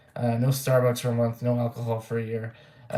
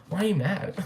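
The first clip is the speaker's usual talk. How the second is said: laughing mock taunt; 7 semitones higher than usual. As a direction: imitate his smirking laugh, pitch up. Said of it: "mocking friend's laughing taunt".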